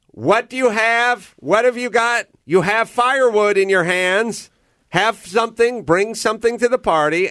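high-pitched mock scolding from an improv teacher; acted coach prodding. Acted coach berating the improv student.

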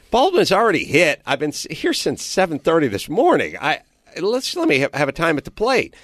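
high, worked-up retold pleading; exasperated plea. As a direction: act out arguing for a turn. Player pleads for a turn at bat.

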